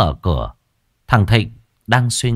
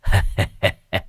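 chuckle. Acted. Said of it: "Lão thầy Mạnh cười cười".

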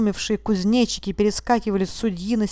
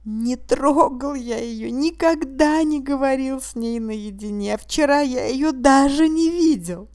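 higher, slow, pleading bleat; bleating lamb; 6 semitones higher, 4 dB louder, slower than usual. A narrator's reading. Accused man denying before the judge, a high slow bleat. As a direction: plead like a lamb under the knife. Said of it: "блея, как барашек под ножом".

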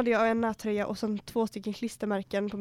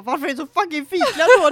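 louder, higher mock yell at the boyfriend; retold angry yell; 5 semitones higher, 12 dB louder than usual. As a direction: blast him with the question. Retold quarrel with Rasmus.

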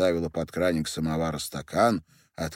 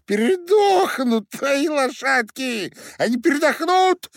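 little miller yelling Пшёл вон at Perkhusha; squealing shout; 9 dB louder than usual. A narrator's reading. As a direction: scream it at the coachman in a high squeak. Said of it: "выкрикнул мельник".

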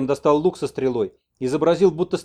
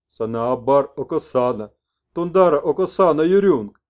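shaman messenger; 2 semitones higher, 7 dB louder than usual. Acted. Messenger gives the old man Yurko's message, slow. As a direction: intone the names.

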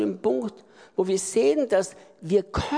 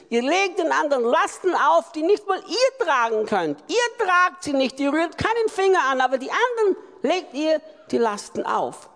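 raised, rebuking voice, higher; confronting Jesus; 4 semitones higher than usual. Acted. Jesus rebuking the religious leaders, higher and raised. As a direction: scold them for the burdens they lay on others.

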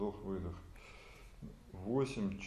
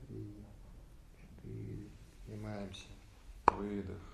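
slow breath counting; 2 semitones lower, 5 dB quieter, slower than usual. Shown as a demonstration. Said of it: "leads breath count".

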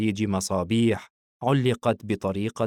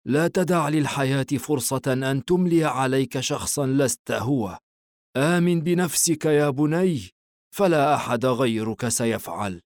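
higher-pitched, kindly encouragement; gentle smile; 5 semitones higher than usual. A narrator's reading. The father encourages Hayeem before leaving, smiling gently. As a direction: urge him on gently, a smile in the voice. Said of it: "الأب باسما بلطف قبل ذهابه".

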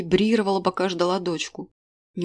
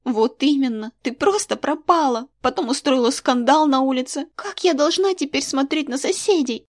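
put-on higher, louder girl listing grievances; resentful girl; 6 semitones higher, 4 dB louder than usual. A narrator's reading. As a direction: scold her mother for the scandal. Daughter reproaches mother. (дочь упрекает мать, выше и громче)

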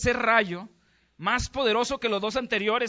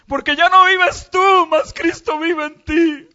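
shouted preaching; 9 semitones higher, 15 dB louder, slower than usual. Real, not acted. Preaching at full force.

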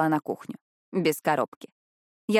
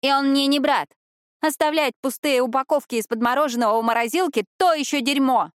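1 angry yelling; 6 semitones higher, 4 dB louder than usual. A narrator's reading. Daisy keeps yelling.

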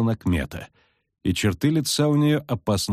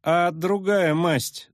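friendly; 8 semitones higher, much slower than usual. A narrator's reading. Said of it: "дружелюбно спросил Лютик".

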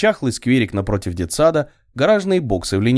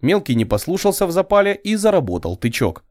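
ordinary delivery

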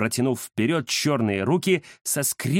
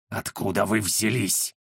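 furious wheeze; 6 semitones lower, 3 dB quieter than usual. Acted. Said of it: "разъярённо просипел".

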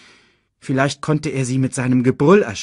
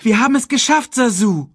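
high, loud cry of relief; excited young voice, pitched up; jubilant shout; 13 semitones higher, 6 dB louder than usual. A narrator's reading. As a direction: call out in triumph. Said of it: "rief er".

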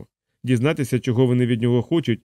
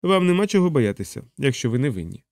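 encouraging; 2 semitones higher than usual. Acted. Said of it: "підбадьорливо мовив майор".

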